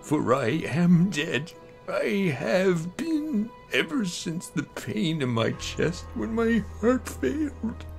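ordinary delivery

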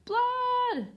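long, high, loud shout; yelled alarm. A narrator's reading. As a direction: yell it out as an urgent explanation. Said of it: "pointed at her brother and yelled".

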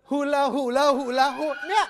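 loud chanting guess; excited shout. Real, not acted. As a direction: call the word out eagerly. Guessing hula hoop excitedly.

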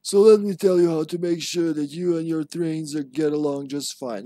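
in-game document read aloud; reading a memo aloud. Acted. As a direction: read out the letter with an instructive lilt.

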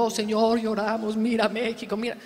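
hammed-up weepy plea; mock whining prayer. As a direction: parody a tearful begging prayer. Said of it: "lloran y lloran y lloran".

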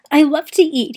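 eager hungry villager; lightly voiced hungry man; round man. A narrator's reading. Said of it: "he said".

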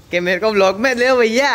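put-on high, pleading kid's voice, lightly done; imitating the kid. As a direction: mimic the boy begging to be filmed. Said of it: "कल रात को मेरे को phone करता है तू". (बच्चे की हल्की नकल, ऊँची आवाज़)

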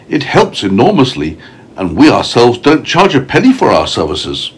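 a touch of a proud lady explaining her good work; storybook ladybird, gently lifted voice; lightly voiced ladybird.

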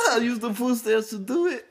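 laughing. Real, not acted. Laughing confession.

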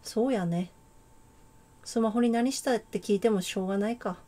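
put-on a light, amateur Kansai accent; casual Kansai-dialect girl, lightly voiced. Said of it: "関西弁風に喋るか。". (軽めの関西弁)

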